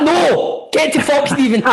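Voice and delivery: put-on outraged refusal; mock angry refusal. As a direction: act out a comic indignant brush-off. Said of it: "He'd be like".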